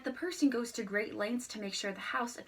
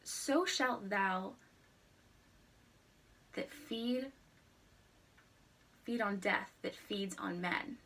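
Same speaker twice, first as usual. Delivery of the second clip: reciting a sonnet; slower than usual. Shown as a demonstration. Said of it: "the couplet states".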